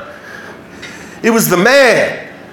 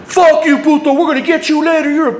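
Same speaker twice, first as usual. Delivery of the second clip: parting yelled insult; 7 semitones higher than usual. Retold or imitated. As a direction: yell it high and stretch the final word. Gang yelling as they drive off.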